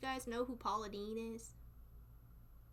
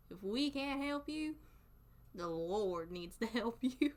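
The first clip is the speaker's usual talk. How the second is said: Southern false sympathy; slower than usual. Acted. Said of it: "We do something called Southern".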